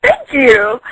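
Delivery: high, flustered, delighted thanks; flattered high thank you. Retold or imitated. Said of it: "And I was just like".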